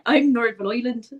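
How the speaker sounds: exaggerated learner's Northern Irish; attempted Northern Irish accent. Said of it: "He's not a bit Northern Ireland".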